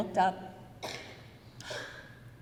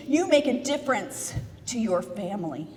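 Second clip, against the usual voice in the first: normal talking voice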